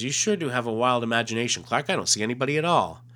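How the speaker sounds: lightly voiced babysitter, brushing off the child's claim; disbelieving babysitter. Reads Terry's reply to Clark.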